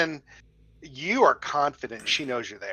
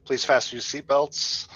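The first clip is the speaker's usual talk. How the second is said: airline captain announcement. Pretend.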